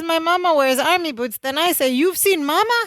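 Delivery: high, eager imitated wonder; mock delight. Host retelling Balky asking after mama, mock delight. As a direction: play innocent excitement, pitched well up.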